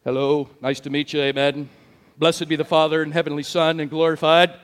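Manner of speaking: mock a suddenly solemn religious man; pious church voice. Man greeting people on walking into church, mock-pious voice. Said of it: "he talked like this".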